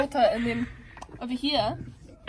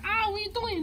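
startled; 10 semitones higher than usual. Pretend. Claire startled.

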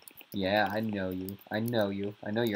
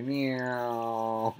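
cat meow; 3 dB quieter than usual. Pretend. Meowing like a cat.

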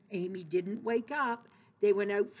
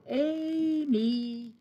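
loud, higher call up the stairs; brother yelling; 5 semitones higher, 4 dB louder than usual. Acted. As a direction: yell her name up the stairs to wake her. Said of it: "yelled as loudly as he could".

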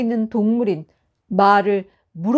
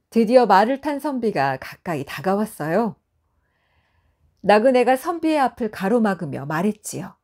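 ordinary delivery

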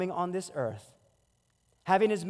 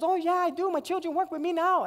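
lightly voiced older lady, raised pitch; a proud auntie, pitched up; vendor lady; 11 semitones higher than usual. Vendor lady telling him her kids work with her, pitched up.

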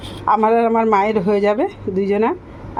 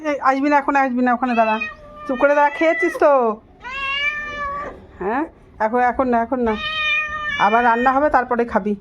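higher-pitched scolding, shooing a pet; 6 semitones higher than usual. Real, not acted. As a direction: firmly fuss at the pet to stay put. (রান্নাঘর থেকে পোষ্যকে তাড়াতে উঁচু গলায় বকুনি)

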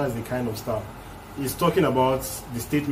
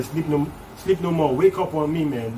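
a lightly raised, pushed voicing of the rapper's call to wake up; 4 semitones higher than usual. Reactor voicing the rapper telling fans to stop sleeping, mild hype. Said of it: "So he's telling them".

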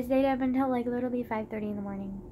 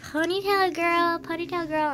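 put-on taunting kid; 4 semitones higher than usual. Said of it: "and he was like".

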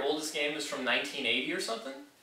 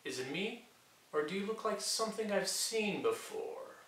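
hushed; 5 semitones higher, 7 dB quieter than usual. Real, not acted. Hushed suspicious aside.

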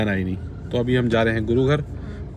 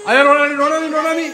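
playful teasing; 13 semitones higher, 6 dB louder than usual. Real, not acted. Teasing a child who is upset.

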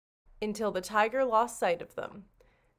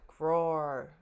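tiger growl; 3 semitones lower than usual. Acted. Tiger roars in story.

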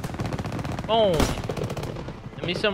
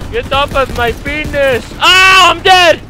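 frantic shout; 3 semitones higher than usual. Real, not acted. Gamer yelling as enemies overrun and kill him, frantic shout. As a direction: shriek it as the enemies overrun you. Swarmed, dying in game.

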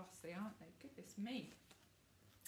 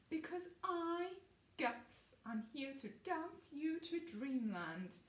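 boastful show-off; 6 semitones higher than usual. Acted. Gus showing off.

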